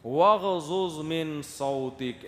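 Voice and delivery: slow, measured recitation of the verse; Quranic recitation. Acted. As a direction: chant the verse slowly. (قرآنی تلاوت کا انداز)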